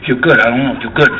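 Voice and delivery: low, mumbling tough guy; Robert De Niro. Acted. De Niro sizing up Nicholson, mumbling impression. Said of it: "There's De Niro going".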